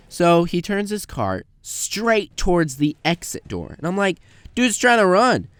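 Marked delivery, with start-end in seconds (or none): 4.5-5.5 higher, louder alarmed aside; sudden alarm, pitched up and louder. Retold or imitated. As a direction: say it like you just spotted a thief.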